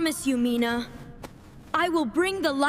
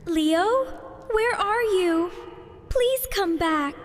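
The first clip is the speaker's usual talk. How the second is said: calling out. Acted. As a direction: call him back across the dark. Calling lost friend.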